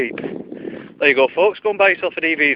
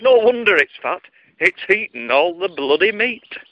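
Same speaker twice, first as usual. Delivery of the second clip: fuming; 6 semitones higher than usual. Acted. Fuming customer complaining to the baker, comic outrage. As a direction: build the mock outrage, then draw it out. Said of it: "absolutely fuming".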